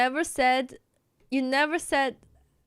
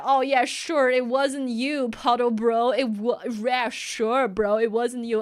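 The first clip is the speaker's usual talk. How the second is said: sarcastic; 4 dB louder than usual. Retold or imitated. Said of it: "everybody was like".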